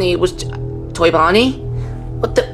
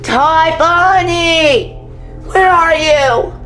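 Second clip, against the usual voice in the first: calling out; much slower than usual. Acted. Searching for missing Toy Bonnie.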